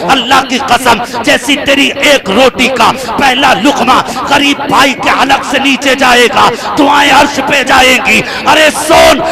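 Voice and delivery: loud, ringing sermon delivery, slowing on the verse; full-force preaching. Acted. Preacher stirring the gathering, loud and ringing. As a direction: preach it out, rising to a shout.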